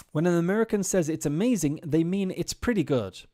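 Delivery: "amazing" stretched with a strong fall, "pretty" hit hard; emphatic stress. Shown as a demonstration. Teacher stressing "amazing" for her students. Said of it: "it's more emphasized".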